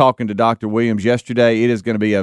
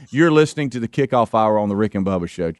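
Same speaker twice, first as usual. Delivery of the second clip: radio liner read; 3 semitones lower than usual. Shown as a demonstration. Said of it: "give me".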